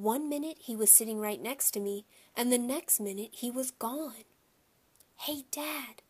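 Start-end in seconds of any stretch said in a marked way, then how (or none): 5.2-6.0 soft, higher hushed call; whispering. A narrator's reading. Peter whispering to his father in the dark, soft. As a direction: whisper so the theater can't hear. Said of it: "I whispered to my father".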